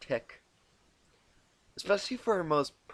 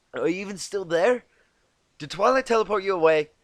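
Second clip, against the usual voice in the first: higher, louder irritated call; annoyed; 7 semitones higher, 10 dB louder than usual. Acted. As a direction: snap out a questioning jab. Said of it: "quickly gave way to annoyance".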